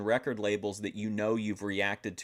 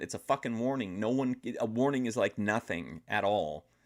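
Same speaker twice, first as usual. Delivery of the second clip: usual speaking voice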